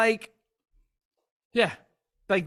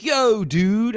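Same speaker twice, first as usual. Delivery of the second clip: put-on failed Scottish accent; 6 semitones higher, 7 dB louder than usual. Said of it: "I can't do a Scottish accent".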